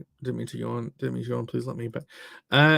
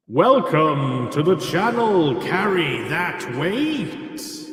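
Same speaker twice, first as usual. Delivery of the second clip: slow drawn-out; much slower than usual. Pretend. Slow sung-like greeting.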